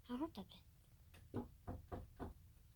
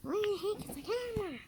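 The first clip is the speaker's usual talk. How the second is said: squeaky voice; 9 semitones higher than usual. Acted. Searching for camera, playful.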